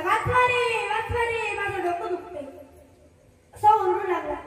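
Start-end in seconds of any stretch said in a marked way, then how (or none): 0.0-2.5 mock crying out. God calls out for help with his headache, mock crying out. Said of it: "जोराजोरात ओरडू लागला".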